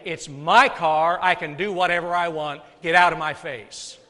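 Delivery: hammed-up belligerent driver; defiant retort. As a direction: throw it back like an entitled driver. Mock defiant driver excuse.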